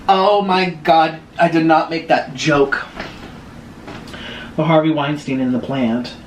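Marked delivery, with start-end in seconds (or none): 0.1-2.8 laughing. Real, not acted. Laughing at her own joke.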